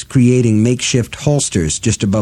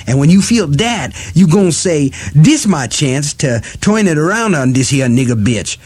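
Detta voice; 5 semitones higher than usual. Acted. Detta threatening Eddie.

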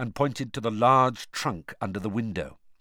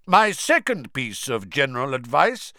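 loud; 3 semitones higher, 4 dB louder than usual. Acted. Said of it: "said Moody loudly".

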